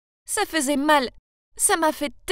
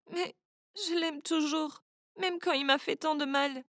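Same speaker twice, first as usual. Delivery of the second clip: mild sobbing; 2 semitones higher, 5 dB quieter than usual. Acted. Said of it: "J'ai sangloté".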